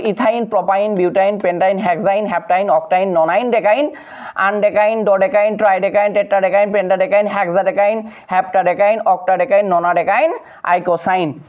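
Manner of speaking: "ইথাইন" with an -ine ending, rhyming with mine; even drill from "ইথাইন" to "আইকোসাইন"; ending pronounced AIN. Shown as a demonstration. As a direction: recite each name closing on -ain, as in "ডেকাইন". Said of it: "আইন উচ্চারণ হবে".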